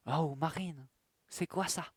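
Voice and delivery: loud teasing. Real, not acted. Teasing her about the glasses.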